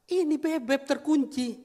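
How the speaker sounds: high, slow, drawn-out complaint; alarmed wife. Retold or imitated. Wife tells husband child is locked in, high alarmed voice. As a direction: imitate a worried wife announcing trouble.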